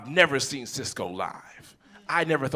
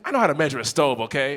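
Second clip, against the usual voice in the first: snippy retort; 4 dB louder, faster than usual. Retold or imitated. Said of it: "It's like".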